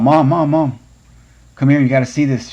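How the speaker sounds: put-on a kid banging on the door, yelling for mom; urgent calling out.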